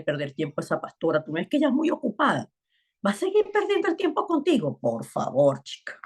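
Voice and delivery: lightly voiced taunting tempter; Satan's mocking voice. Preacher voicing Satan taunting a weary believer, mildly mocking. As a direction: sneer at her with mild mock scorn. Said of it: "Eso es lo que habla Satanás".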